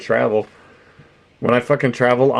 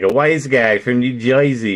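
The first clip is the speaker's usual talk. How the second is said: mock New Jersey wise-guy accent. Streamer recalling a movie character, mock Jersey wise-guy accent. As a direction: lightly put on a Joisey wise guy. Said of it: "they talked like that".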